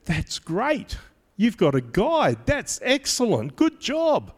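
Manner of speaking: rising, cheery encouraging abbot; lightly voiced abbot praising them; a hint of a pleased abbot; approving abbot.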